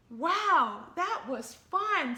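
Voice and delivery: out of breath from playing; breathless. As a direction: gasp it out after the game. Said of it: "said the new kid breathlessly".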